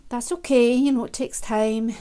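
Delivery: gentle, patient reassurance to a learner; soothing reassurance. Pretend. Comforting a child learning to ride a bike, soothing. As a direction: tell a struggling child it's fine. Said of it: "Just be like that with yourself".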